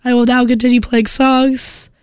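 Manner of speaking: hoarse voice from a cold; croaky, under the weather; sick voice. Real, not acted. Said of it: "heard enough of my sick voice".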